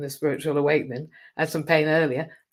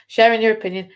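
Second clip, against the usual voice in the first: mock polite repeat; 6 semitones higher, 10 dB louder than usual. Mocking repeat to ego.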